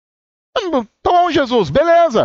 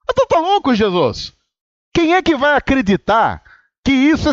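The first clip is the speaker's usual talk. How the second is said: mock disbelief; 4 semitones higher than usual. Pregador zombando, incrédulo com Jesus: mock disbelief. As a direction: play it like you can't believe your ears. Incredulous retort to Jesus' sermon.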